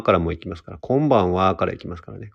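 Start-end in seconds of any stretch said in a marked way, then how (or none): 0.8-1.6 Kansai-accented greeting demo. Shown as a demonstration. Host showing how the Kansai broadcast would open, Kansai accent. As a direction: open the show in Kansai dialect. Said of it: "関西弁でやるってやってみたい".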